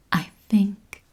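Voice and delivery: slow, tender, with long pauses; loving. Acted. Woman answering her own self-doubt, lovingly. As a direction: answer gently and unhurried. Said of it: "I would say this lovingly".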